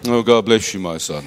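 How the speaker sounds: lightly mocking pious priest. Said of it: "But not like the priest". (mock priest blessing a parishioner)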